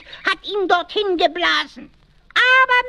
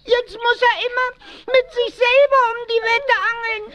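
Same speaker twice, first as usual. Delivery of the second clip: mock crying; 3 semitones higher than usual. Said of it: "Heulen steckt ja an".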